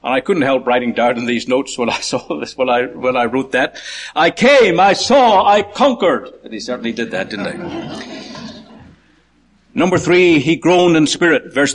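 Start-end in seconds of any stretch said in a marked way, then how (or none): 4.2-6.3 high, punchy declamation; proclaimed quotation. Acted. Preacher quoting a conqueror's famous words, ringing and emphatic.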